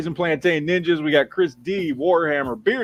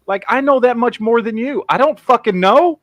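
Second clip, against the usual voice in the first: retold exasperation; 7 semitones higher, 5 dB louder than usual. Retold exasperated reply to wife.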